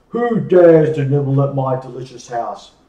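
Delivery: loud, croaky witch demanding. Acted. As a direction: challenge intruders like a witch. Witch voiced in fairy tale.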